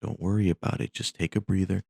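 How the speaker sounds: gentle acted plea to sit; soothing flight attendant. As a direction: talk a panicking passenger back into their seat. Attendant pleading with frightened passenger.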